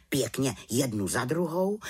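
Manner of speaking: plain reading voice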